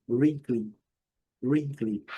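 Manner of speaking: "Wrinkly" hit hard at the start; strong first syllable. Shown as a demonstration. Teacher drilling wrinkly, strong opening syllable. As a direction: stress the first syllable of "Wrinkly", second still clear. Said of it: "Pronuncia bem forte a primeira".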